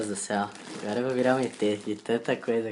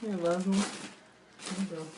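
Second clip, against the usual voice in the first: helium voice; 8 semitones higher, 3 dB quieter, slower than usual. Real, not acted. After inhaling helium again.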